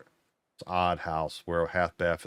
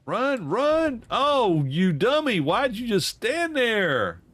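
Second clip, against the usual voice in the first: much higher, louder, frantic yelling at the screen; excited yelling at game; 14 semitones higher, 5 dB louder, slower than usual. Real, not acted. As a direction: shout at the character for standing still. Yelling at game character who died.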